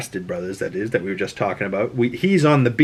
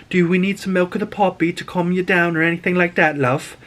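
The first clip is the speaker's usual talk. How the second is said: gentle handmaid; 6 semitones higher than usual. Retold or imitated. Handmaid offering milk of poppy.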